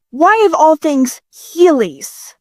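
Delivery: slow, drawn-out whining disbelief; milk the outrage; exasperated. Acted. Exasperated at Heelys.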